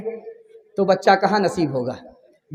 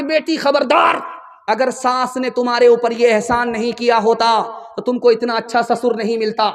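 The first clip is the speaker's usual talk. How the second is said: warning mother; 3 semitones higher than usual. Acted. Mother warns daughter.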